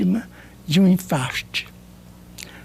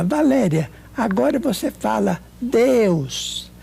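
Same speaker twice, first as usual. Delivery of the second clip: slow, gentle coaxing of someone struggling to speak; patient coaxing at a sickbed; 3 semitones higher than usual. Retold or imitated. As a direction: ease her into saying the word. Coaxing a sick friend to speak.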